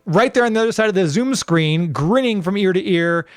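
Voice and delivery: put-on light old-school Dickensian English accent, slowed at the start; hammed-up Dickensian English host introduction. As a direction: play a grand Victorian host welcoming listeners. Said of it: "you sound a little Dickensian".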